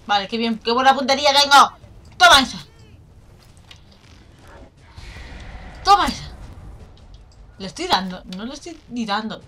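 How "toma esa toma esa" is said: loud gloating cry; triumphant. Real, not acted. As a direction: shout it like a winner. Triumphant hit.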